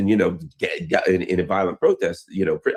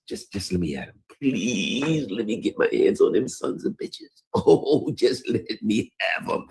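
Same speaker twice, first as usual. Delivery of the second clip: pleading to attack; 3 semitones higher, 3 dB quieter than usual. Retold or imitated. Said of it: "they're always talking to the Iranians".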